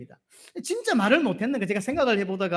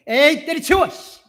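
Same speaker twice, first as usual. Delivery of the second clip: louder, much higher fed-up blurt; mock exasperated outburst; 7 semitones higher, 7 dB louder, slower than usual. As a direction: toss it all aside in pretend anger. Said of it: "내 같으면". (짜증 섞인 장난스러운 버럭)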